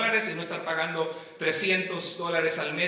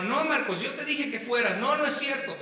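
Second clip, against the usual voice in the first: higher, mildly heated sibling squabble; retold raised voices; 5 semitones higher than usual. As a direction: imitate bickering with a brother, pitched up. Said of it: "podíamos levantar la voz".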